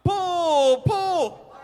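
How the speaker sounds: high, loud bossy shout; yelled command. Acted. Little sister shouting at her brother to pull the wagon, loud. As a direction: bark it like a bossy little girl.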